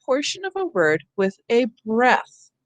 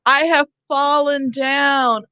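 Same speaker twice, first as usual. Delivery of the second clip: mock call for help; 4 semitones higher, slower than usual. Teacher acting a fallen person calling out, hammed-up. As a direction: act out someone who has fallen. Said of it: "Okay, so I say".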